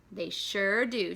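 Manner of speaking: slow, satisfied agreement; boy agreeing with his friend, content. Acted. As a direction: savour the happy ending. Contented close.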